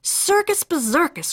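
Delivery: groaning. Acted. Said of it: "groaned Mama".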